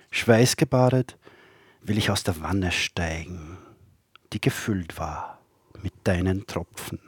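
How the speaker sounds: measured poem recital with long pauses; poetry reading. Acted. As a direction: recite poems line by line, letting each phrase stand. Reads own poems aloud.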